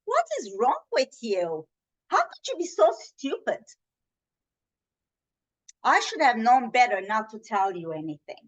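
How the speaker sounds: accusing sister, sharp and exasperated; blaming outburst. Shown as a demonstration. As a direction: scold her for betraying trust. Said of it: "I'll show you the nonviolent way".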